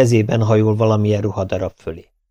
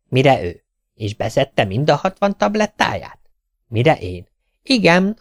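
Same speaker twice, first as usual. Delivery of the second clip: lightly voiced tailor, higher, moaning about work; complaining tailor; 5 semitones higher than usual. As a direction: sigh over the endless work. Tailor retells doctor dialogue.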